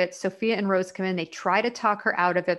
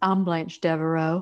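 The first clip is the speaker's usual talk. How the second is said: voice dropped really low and seductive; 2 semitones lower than usual. Retelling a scene where a hotel owner asks for her, Blanche Devereaux going really low. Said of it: "goes really low and goes".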